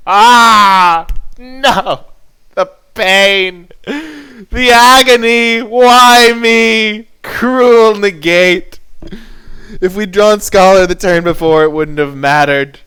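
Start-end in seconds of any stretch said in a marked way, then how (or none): 0.1-11.7 high, loud, mock-tragic wailing; hammed-up agony. Player mourning a countered spell, hammed-up high loud lament. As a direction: ham up the suffering like a tragedy.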